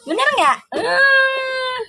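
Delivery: high, squealing, breaking into a cry; excited squeal. Real, not acted. Host teasing her viewers, squealing excitedly. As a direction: squeal the question up high at the chat.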